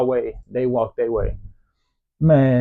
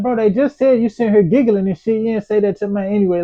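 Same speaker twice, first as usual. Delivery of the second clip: retold exasperation; 9 semitones higher, 3 dB louder than usual. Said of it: "I was like".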